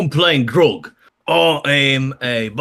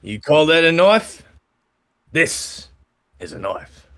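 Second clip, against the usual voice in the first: mock Australian accent. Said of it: "an Australian accent this week".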